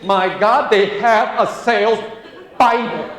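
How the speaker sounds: hammed-up astonishment; mock amazed reader. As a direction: play it like a wide-eyed convert. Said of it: "Then you read".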